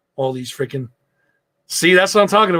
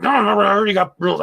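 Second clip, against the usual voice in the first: mildly mad, higher-pitched protest; retold anger; 5 semitones higher, faster than usual. Husband refusing wife's trip to Stewart's, mildly mad. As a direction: replay a stubborn refusal with a touch of anger. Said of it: "I was mad, you know?".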